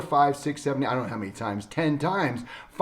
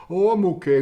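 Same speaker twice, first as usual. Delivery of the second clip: high, loud imitation of a dismissive patient; exaggerated "I'm fine" act; mock brush-off; 7 semitones higher, 6 dB louder than usual. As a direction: wave it off as an accident patient would. Acts out accident patients brushing it off.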